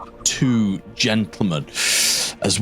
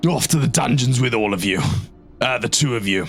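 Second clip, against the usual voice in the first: stern officer barking orders; commissar voice; 4 semitones higher, faster than usual. Acted. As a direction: play an outraged commissar. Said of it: "commissar voice".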